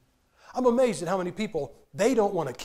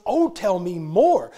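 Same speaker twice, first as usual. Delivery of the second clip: mock eager gossip; 6 dB louder, much slower than usual. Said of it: "she goes".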